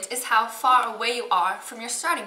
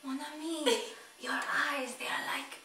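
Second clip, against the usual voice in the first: mock romantic murmur; 7 dB quieter than usual. Mock romantic French flattery.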